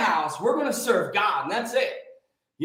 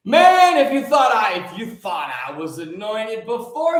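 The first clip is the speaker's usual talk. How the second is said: fired-up shout; 3 semitones higher, 7 dB louder than usual. Real, not acted. Preacher shouting to his live viewers about being anointed, fired-up shout. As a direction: shout it out to fire up the crowd.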